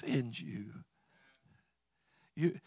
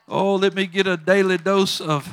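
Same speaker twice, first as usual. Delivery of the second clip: mock eager; 3 semitones higher, 15 dB louder than usual. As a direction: gush over it like a treat. Joking craving for the word.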